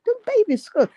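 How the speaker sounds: high, put-on voice for the priests; mock priests. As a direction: play the priests owning up in a high voice. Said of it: "They like".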